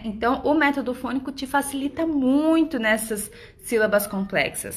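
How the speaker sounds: usual speaking voice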